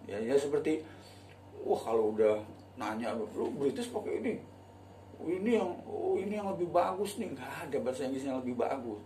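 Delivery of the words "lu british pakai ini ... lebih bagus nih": high, prissy imitation of a fussy learner; lightly mock the snobby student; higher mock voice. Mocking learners asking about British.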